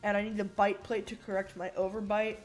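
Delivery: S sounds slightly off from braces. Real, not acted. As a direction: talk around a bite plate. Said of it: "if my S's sound a little weird".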